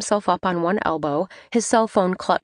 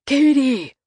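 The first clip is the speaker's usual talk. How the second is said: calling out; 7 semitones higher, 5 dB louder than usual. Acted. Calling from the dining room.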